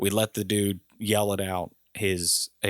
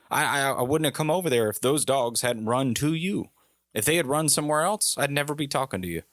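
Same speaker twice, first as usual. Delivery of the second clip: higher, quickening self-justification; exasperated defense; 5 semitones higher than usual. Retold or imitated. Visitor justifying himself to the drunk neighbor, exasperated. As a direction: argue back, pressing the point.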